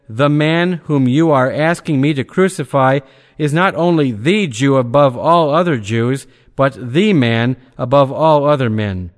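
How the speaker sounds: "the" leaned on as thee before "Jew" and "man"; emphatic "the". Acted. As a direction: press "the" hard to mark the one above all. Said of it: "with an emphasis on the words".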